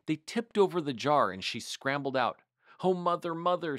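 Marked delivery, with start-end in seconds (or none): 2.8-3.8 higher-pitched scared little kitten; high kitten voice calling out in fright; frightened kitten cry. A narrator's reading. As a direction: wail for mother, startled and small.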